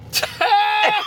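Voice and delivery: shrill cackle of real laughter; high burst of laughter. Real, not acted. Cracking up at the comic, high laugh.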